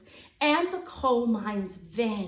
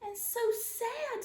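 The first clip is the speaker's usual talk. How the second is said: sad; 8 semitones higher, 5 dB quieter than usual. Acted. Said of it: "Sophie said".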